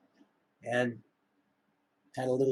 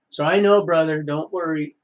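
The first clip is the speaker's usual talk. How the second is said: called out; 3 semitones higher, 7 dB louder than usual. Real, not acted. Shouting to brother on camera.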